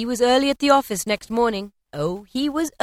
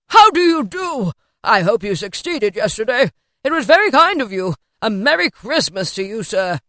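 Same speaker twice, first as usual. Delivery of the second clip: effusive Scrooge, delighted; 3 semitones higher, 8 dB louder than usual. A narrator's reading. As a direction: gush heartily at someone you wronged.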